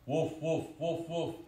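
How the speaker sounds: high, loud run of woofs; excited puppy barking. A narrator's reading. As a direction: yap away like an alarmed puppy. Puppy barking as rain comes.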